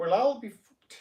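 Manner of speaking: loud, high-pitched put-on Irish brogue. Showing how the phrase is supposed to sound, in an irish accent. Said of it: "an Irish accent".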